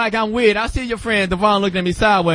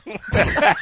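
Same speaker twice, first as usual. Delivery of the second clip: deep, harsh whispered scolding; angry whisper; 12 semitones lower, slower than usual. Retold or imitated. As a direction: hiss it at a kid in church. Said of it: "She had the angry whisper".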